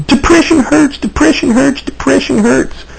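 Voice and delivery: parroting a TV ad, trailing off; mocking ad slogan. Mocking a TV depression ad slogan, high, fading. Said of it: "these campaigns that they go on with".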